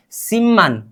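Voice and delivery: सिमन with a doubled m in the middle; demonstrated pronunciation. Shown as a demonstration. Teacher answers what we should say, demonstrated pronunciation. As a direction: let the म in सिमन linger, then finish on -an. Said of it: "क्या बोलना चाहिए अब हमें".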